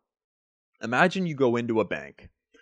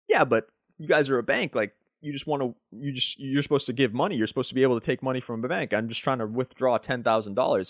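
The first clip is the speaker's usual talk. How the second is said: confused customer. Retold or imitated. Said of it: "And you're just confused".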